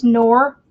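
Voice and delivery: "Nor" set apart, loud and firm; syllable by syllable. Shown as a demonstration. Resident working out the local name, "Nor" said separately. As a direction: sound out "Nor" as its own syllable. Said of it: "I don't remember how the locals say it".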